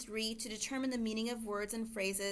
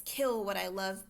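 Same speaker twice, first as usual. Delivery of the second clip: "kill what I love" set off louder; emphatic phrase; 4 dB louder than usual. Shown as a demonstration. Teacher marking up a line for students, emphatic on "kill". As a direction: punch "kill" to bring the phrase out. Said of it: "so we can really emphasize this".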